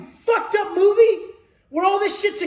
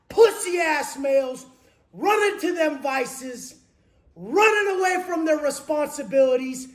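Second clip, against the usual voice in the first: ordinary delivery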